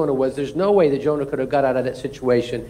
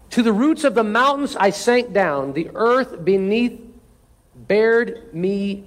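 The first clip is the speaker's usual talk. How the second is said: higher, earnest Bible reading; scripture reading; 3 semitones higher than usual. Acted. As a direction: read the prayer as Jonah crying out. Reads Jonah's prayer aloud.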